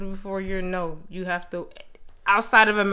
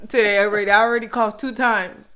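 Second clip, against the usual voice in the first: laughing; 3 semitones higher, 11 dB louder than usual. Real, not acted. Laughing retelling coughs.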